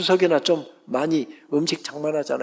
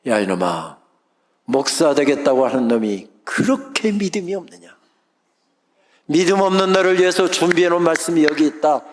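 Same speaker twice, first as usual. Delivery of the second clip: God's rebuke. Retold or imitated. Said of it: "세미한 음성으로 제게 다가오셔서 책망을".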